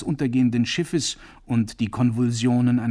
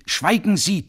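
loud, high bark; thundering command; 9 semitones higher, 6 dB louder than usual. Acted. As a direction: shut him up with force. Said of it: "donnerte er".

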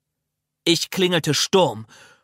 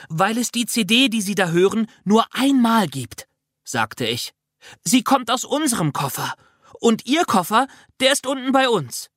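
put-on excited child voice; 8 semitones higher than usual. Child Manu eagerly explains.

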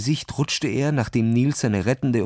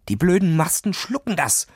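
frustrated outburst, raised pitch at normal volume; mild narrated cry, higher in pitch; disappointed cry; 6 semitones higher than usual. A narrator's reading. Ferdinand to Niels as hammering the cable fails, disappointed cry. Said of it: "schrie Ferdinand enttäuscht".

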